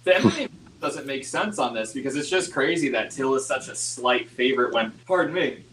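choking while talking, real; talking through a choke; choking on a drink. Real, not acted. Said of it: "I'm, I'm choking much like Tyron Woodley did".

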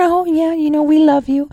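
hammed-up fake reassurance to the community; mock Pelosi. Mocking Pelosi consoling Chinatown, pitched high and syrupy. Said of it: "Pelosi went down to Chinatown".

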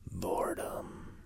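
slow breathy whisper of one word. Acted. Teacher names what comes next, slowly whispered. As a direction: drop to a slow whisper for effect. Dramatic pause before the answer.

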